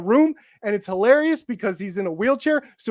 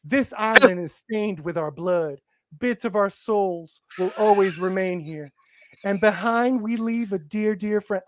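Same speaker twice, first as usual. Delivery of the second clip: dramatic voiceover read; 4 semitones lower than usual. Retold or imitated. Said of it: "typed the exact voiceover".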